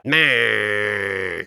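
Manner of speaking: low, strangled creature bleat; choking griffin. Pretend. Fireplace answers host in a choked low creature bleat. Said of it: "that guy sounded like a griffin who'd been choking on yarn balls".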